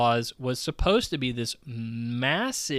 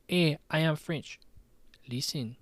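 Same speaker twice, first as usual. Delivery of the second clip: lightly attempted comic French accent; half-hearted French accent, abandoned quickly; 3 semitones higher, 4 dB quieter than usual. Podcaster mimicking Ubisoft's French CEO, French accent. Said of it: "do a really funny French accent".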